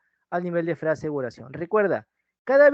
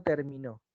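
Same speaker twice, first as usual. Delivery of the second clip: "terminó" as ter-mi-NÓ, lower and softer; stress on last syllable; 4 semitones lower, 7 dB quieter than usual. Shown as a demonstration. Teacher quizzing students on meaning, "terminó" stressed on NÓ. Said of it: "su desplazamiento distingue el significado".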